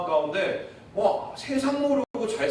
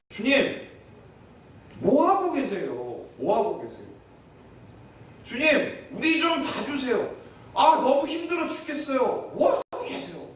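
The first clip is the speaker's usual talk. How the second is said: whining plea; 5 semitones higher than usual. Retold or imitated. Voices complaining disciples.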